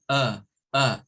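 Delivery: short, low neutral uh; teacher isolating the uh vowel; schwa demo. Shown as a demonstration. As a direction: sound out uh as a schwa. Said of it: "according to the schwa zone".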